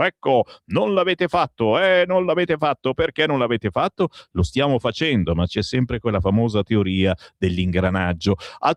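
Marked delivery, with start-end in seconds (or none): 0.0-4.1 needling, raised-pitch taunt of the general; mocking Vannacci. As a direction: throw the accusing question back, lightly mocking. (imitazione canzonatoria di Vannacci, tono alto)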